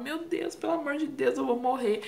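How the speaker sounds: high start sinking toward normal pitch; retold pain cry. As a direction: re-enact a desperate cry without really shouting. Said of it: "abaixava e gritava".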